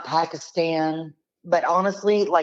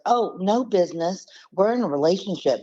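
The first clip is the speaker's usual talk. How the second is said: imitated woman caller, pitched higher; Stephanie; 5 semitones higher, faster than usual. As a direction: lightly mimic the caller in a raised voice. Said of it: "she goes".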